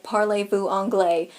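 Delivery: slow, deliberate Parlez-vous anglais? in a lightly voiced tourist tone; a hint of a clueless American asking for English; mock American tourist. Mocking Americans who demand English in France, slow tourist voice. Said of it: "Americans will go to France and be like".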